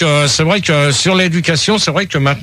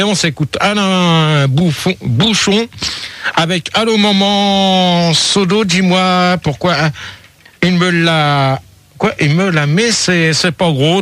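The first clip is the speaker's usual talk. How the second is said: slow, stumbling read; haltingly, with stops; 2 semitones higher, slower than usual. Real, not acted. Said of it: "répète-le d'une seule traite".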